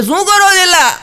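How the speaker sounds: high, loud startled yelp from the wife; startled wife's cry. Acted. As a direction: cry out as the shocked young wife. Wife startled by sudden kiss.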